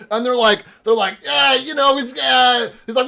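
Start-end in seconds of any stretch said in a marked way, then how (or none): 1.2-2.7 guard voice. Acted.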